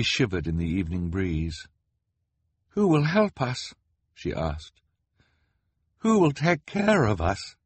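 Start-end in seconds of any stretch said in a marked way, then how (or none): 2.7-7.6 worried. A narrator's reading. Violet frightened in the cold.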